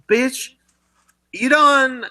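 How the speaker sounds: high, sassy drag queen voice; catty drag queen. Retold or imitated.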